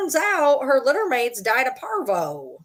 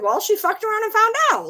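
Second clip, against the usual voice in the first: higher, amused retelling; retold quip; 11 semitones higher than usual. Quoting herself to husband about the dog, amused. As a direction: toss it off with a smirk. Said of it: "And I said".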